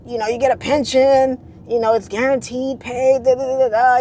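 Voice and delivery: a hint of an old-school mom. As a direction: play mom selling the steady job. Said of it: "old school".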